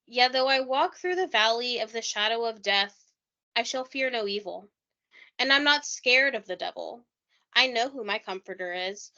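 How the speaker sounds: a lightly put-on voice of a grieving father reciting scripture; imitating John Mark Byers. Podcaster acts out a bereaved father's soliloquy for her cohost, lightly voiced. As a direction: read it as his soliloquy, only lightly voiced. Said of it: "should I do it in an accent?".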